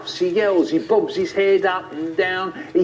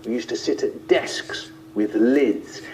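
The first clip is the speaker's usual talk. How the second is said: ordinary delivery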